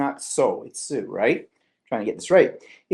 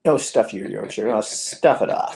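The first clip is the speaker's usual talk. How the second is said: mock retort; 6 semitones lower than usual. Real, not acted. Joking retort to husband.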